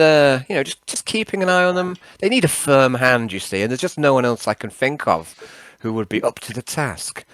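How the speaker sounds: lightly voiced old-chap character; halting, over-polite character request; Nixius, politely wheedling. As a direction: coax a pal into minding the team. Nixius asks Yarn a favour.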